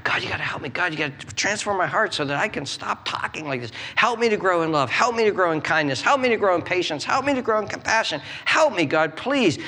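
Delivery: insistent plea, repeated and building; importunate prayer. Acted. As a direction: keep pestering God, rising as you go. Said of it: "make a nuisance of yourself".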